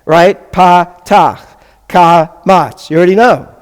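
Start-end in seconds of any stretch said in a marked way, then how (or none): 0.5-1.4 "Patach" broken into pa-tach; teacher says "Patach" syllable by syllable; sounding out name. Shown as a demonstration. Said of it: "you also know the sound". 1.9-2.9 "kamatz" broken into ka-matz; teacher says "kamatz" syllable by syllable; sounding out name. Shown as a demonstration. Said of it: "you also know the sound".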